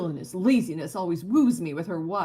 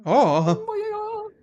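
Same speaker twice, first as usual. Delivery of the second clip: high, slow stunned gasp; shocked; 6 dB louder, much slower than usual. Acted. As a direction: drag it out in shock. Character reacts to gruesome eyes.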